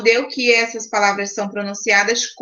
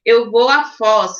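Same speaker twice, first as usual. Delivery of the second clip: example sentence; 4 dB louder than usual. Shown as a demonstration. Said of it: "então Foz".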